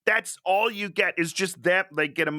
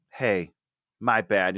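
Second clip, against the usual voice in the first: offhand mock apology; 7 semitones lower, slower than usual. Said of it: "He's like".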